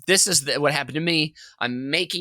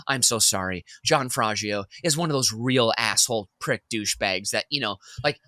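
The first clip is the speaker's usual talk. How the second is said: manipulative apology. Retold or imitated. Boss apologizing to customers with free muffins, lightly voiced smooth fake sorry. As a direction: soothe the customers while slandering the vendor. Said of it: "that kind of manipulative".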